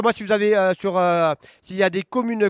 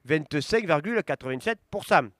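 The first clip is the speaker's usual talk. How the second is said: results read-out; slower than usual. Acted. Reading election results to viewers, steady announcer voice. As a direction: call each town, then the numbers. Reads commune results aloud.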